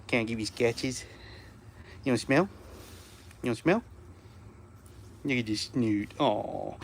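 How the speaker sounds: quiet, low cooing to a dog; soft murmur. Real, not acted.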